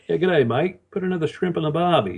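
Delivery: a light put-on Australian accent, g'day mate; playful attempt at an Australian accent on request; Aussie accent. Interviewer asks for an Aussie accent, lightly put-on Australian accent. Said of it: "give us your best Aussie accent".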